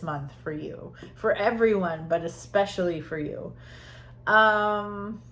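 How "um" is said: whistling through the nose; nose whistling on the breath. Real, not acted. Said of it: "my nose keeps whistling".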